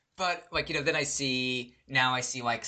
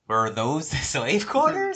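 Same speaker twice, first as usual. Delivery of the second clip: louder, slow repeated tourist question; detached curiosity; 3 semitones higher, 5 dB louder, slower than usual. Retold or imitated. Old lady asking the unanswering cart, detached curiosity. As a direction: ask it slowly with idle curiosity. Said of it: "like, completely detached".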